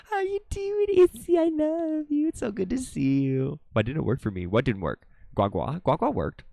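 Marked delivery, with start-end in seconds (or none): 0.1-3.6 excited greeting. Real, not acted. Greeting a friend on stream.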